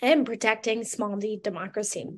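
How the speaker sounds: hoarse, voice giving out; rough, worn-out hoarse voice; losing voice. Real, not acted. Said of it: "I'm losing my voice, as you can hear".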